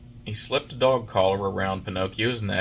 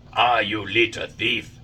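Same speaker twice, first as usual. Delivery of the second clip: louder, slow angry farmer; 7 dB louder, slower than usual. A narrator's reading. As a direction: catch the thief red-handed. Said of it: "said the farmer in an angry voice".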